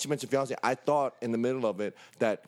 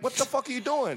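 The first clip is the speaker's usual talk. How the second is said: baffled; 10 semitones higher than usual. Retold or imitated. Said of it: "I'm just like".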